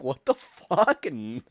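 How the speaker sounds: loud, high, disbelieving shout; incredulous bouncer yell. Retold or imitated. Bouncer to the student asking for his ID, shouted disbelief. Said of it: "the bouncer was like".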